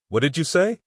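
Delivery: a high, stunned question; he can't believe what he heard; stunned disbelief. Retold or imitated. Speaker on the phone hearing his girlfriend leave, stunned disbelief.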